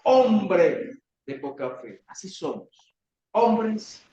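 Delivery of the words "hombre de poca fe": gentle rebuke. Pretend. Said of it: "y le dijo".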